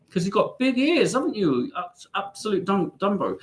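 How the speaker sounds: high-pitched cooing to a pet. Real, not acted. Owner to his little husky rat, high baby talk. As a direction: coo it up high to a little animal.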